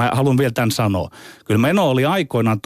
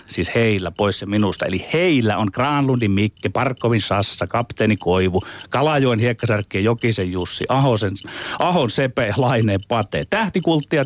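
half-serious, theatrical delivery; mock-pompous column read. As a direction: read out like a grand newspaper column.

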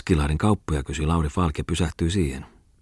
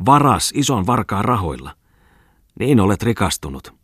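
raised, heated accusing questions; angry accusation; 3 semitones higher, 3 dB louder than usual. Acted. Maljanen accuses Ripatti of getting rich by theft, angrily. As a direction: hurl each charge at him, pitched up at first.

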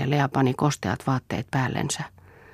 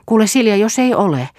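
calling out; 9 semitones higher, 7 dB louder than usual. Acted. Lea calls to Silja.

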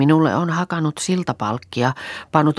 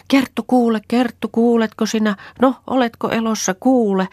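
anxious calling out; 10 semitones higher than usual. Retold or imitated. Reeta calling for Kerttu hidden in the moss, frantic shout. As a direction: call into the forest in alarm. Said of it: "hätäkurkussa huutelin".

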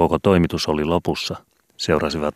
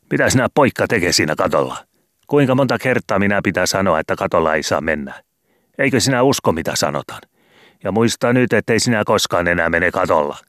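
scolding landlady; 4 semitones higher than usual. Acted. Landlady snaps at the boy on the roof, scolding. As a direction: nag the boys like a cross landlady. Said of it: "räjähti haukkumaan".

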